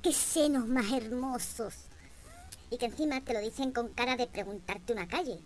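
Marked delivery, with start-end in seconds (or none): 0.0-1.7 lightly voiced South American accent, sweet and polite. Young man in a city murmuring a compliment in a South American accent. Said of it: "una vocecita con acento sudamericano".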